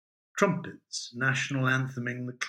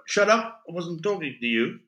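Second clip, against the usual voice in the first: angry snap; 4 semitones higher, 3 dB louder than usual. Acted. The speaker snaps in a joke.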